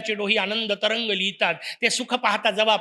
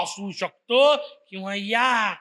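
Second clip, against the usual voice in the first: delighted welcome; 3 semitones lower than usual. Shown as a demonstration. Speaker shows a guest a joyful come in, delighted. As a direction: stretch या out in welcome. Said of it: "मला खरंच आनंद झाला असेल".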